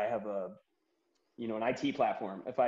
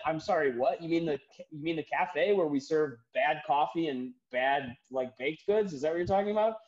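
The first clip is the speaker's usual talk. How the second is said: mock confused barista; 4 semitones higher than usual. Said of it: "even the woman on the phone was confused".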